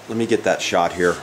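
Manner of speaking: ordinary talk, nothing marked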